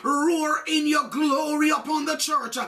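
fervent, ringing preacher's cadence over organ; full-force preaching. Acted. Preacher declaring God's deliverance to the congregation, full-force preaching. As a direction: preach it to the rafters, chanting the roars.

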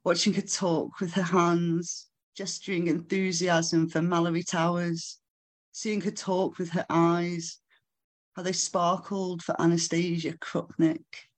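measured, deliberate spoken-word delivery; poetry recital. Acted. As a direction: read the poem phrase by phrase, letting pauses hang. Recites own poem to audience.

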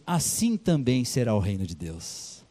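Jesus concluding his parable, slow and solemn. Acted. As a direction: deliver the words of Jesus gravely. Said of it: "Ele falou assim".

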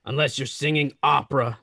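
Darth Vader voice. Acted. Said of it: "That was not even close to Vader".

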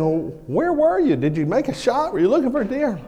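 a hint of an unbothered father; lightly voiced dad. Dad voiced asking questions.

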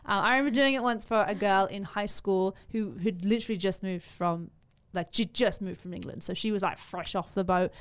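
Emma Watson-style British English; demonstrated British accent, conversational. Shown as a demonstration. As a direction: speak in a composed Sussex-like British accent. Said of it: "I can do a pretty decent British accent".

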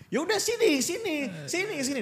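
high, taunting come here; taunting bully. Retold or imitated. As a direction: lure him in to fight. Bully challenging him to fight.

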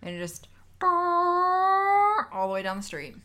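high, loud, slow trumpet blare; loud trumpet imitation. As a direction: blast it out like a trumpet. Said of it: "I don't think that's how that sounds".

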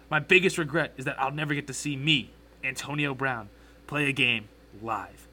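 mildly performed quote reading; best reading voice. Acted. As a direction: read the quote aloud, lightly putting it on. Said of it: "read it in my best voice".

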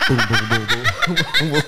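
stomping footsteps. Retold or imitated. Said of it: "Janine walked like that dance".

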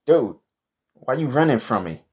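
hollering across the room at a fleeing vampire; calling out. Acted. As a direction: yell after him in disbelief. Calling after fleeing Dracula.

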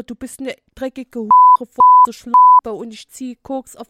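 building to a loud rap shout; aggressive rapper. Retold or imitated. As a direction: spit it like a rude gangsta rapper.

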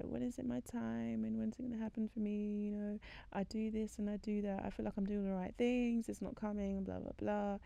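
high mock-tearful complaint; imitating someone upset about waiting; upset lament. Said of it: "she was so upset".

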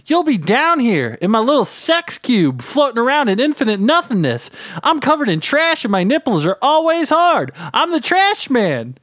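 high, frenzied trash-man yell; ranting trash creature. A narrator's reading. Trash man goads the man above, frenzied yell. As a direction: shriek demands like a depraved gremlin.

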